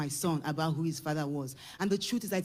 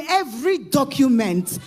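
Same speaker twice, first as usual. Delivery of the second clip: father's offer; 7 semitones higher, 7 dB louder than usual. Retold or imitated. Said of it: "his father reached out to me and said".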